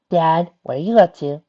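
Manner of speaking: high, loud, suspicious challenge. A narrator's reading. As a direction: question Dad sharply, smelling a scheme. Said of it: "she asked suspiciously".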